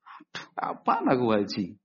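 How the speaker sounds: breathy, whispery mock lament; mock weeping. Man without money despairing of hajj, mock weeping. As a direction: lament under the breath, acting tearful.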